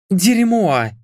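a sharp high swear word, voicing the blonde; cursing. A narrator's reading. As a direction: spit out a curse in frustration. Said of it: "снова выругалась Мишель".

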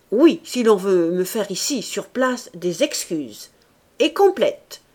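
firm, clipped demand, rising hard on complètes; stern duellist setting his conditions. Retold or imitated. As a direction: lay down terms as if granting a favour. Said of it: "Mon accent est dur".

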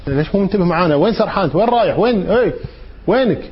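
a hint of a teacher snapping at the class; scolding teacher. Teacher to a daydreaming student, mock-stern scolding. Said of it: "المدرس يقول لك".

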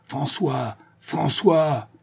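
appel vociféré, plus aigu; vociférer. Acted. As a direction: hurler le nom depuis la fenêtre. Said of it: "en vociférant de nouveau". (vocifération aiguë du nom)

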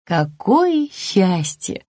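slow, relieved mother's sigh of joy. Acted. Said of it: "обрадовалась она".

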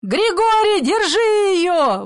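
loud high wailing plea, slowed; a grandfather begging someone to stop her; high drawn-out howl for help; desperate wail. A narrator's reading. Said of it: "выл дедушка".

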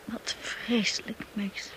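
horrified whisper to her husband. Acted. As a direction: breathe it out, horrified. Wife's horrified hush.

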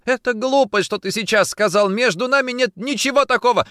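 high, loud, indignant protest; vehement denial. A narrator's reading. Woman denies affair to her man, vehement. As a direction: deny it with full force.

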